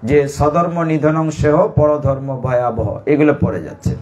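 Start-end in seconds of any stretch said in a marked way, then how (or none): 0.3-2.9 slow, measured chanting of a Gita verse; Sanskrit verse recitation. Retold or imitated. Preacher quoting the verse the son recites, slowly. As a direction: recite it like scripture, unhurried. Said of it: "আবৃত্তি করছে".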